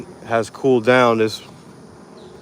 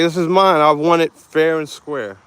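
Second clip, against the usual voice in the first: squirrel voice; 7 semitones higher, 5 dB louder than usual. Pretend. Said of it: "he's like".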